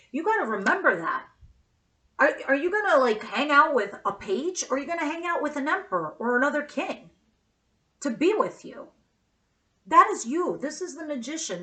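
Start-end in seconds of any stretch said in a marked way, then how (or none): 2.2-10.6 loud, worked-up, upset yelling. Reading cards for someone and getting upset, yelling. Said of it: "I guess I'm yelling".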